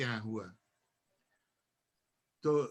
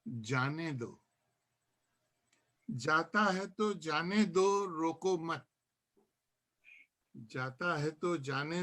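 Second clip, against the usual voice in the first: measured verse, lines set apart by pauses; poem recitation; 2 semitones higher, slower than usual. Acted. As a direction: let each refrain fall away at the end. Recites own nazm to gathering. (नज़्म का ठहर-ठहर कर पाठ)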